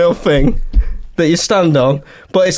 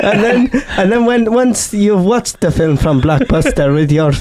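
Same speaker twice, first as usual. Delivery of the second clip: Greta impression in comic Italian-sounding accent; earnest pep talk in a mock Italian accent; hammy broken-English Italian accent; bad Italian-sounding accent; 3 semitones higher than usual. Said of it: "Greta Thunberg is an old Italian man".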